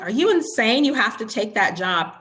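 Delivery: they can't believe she'd refuse; mock incredulous. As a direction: play the mentors' disbelief. Mentors urge taking job.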